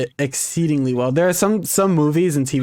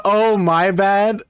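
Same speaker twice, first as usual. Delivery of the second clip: slow mock quote; 5 semitones higher, much slower than usual.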